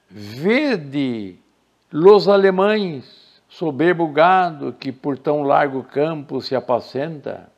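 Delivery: slow, declaimed verse reading; solemn poetry recital; reciting Camões. Shown as a demonstration. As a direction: recite the epic lines with weight, slowly. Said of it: "Camões diz".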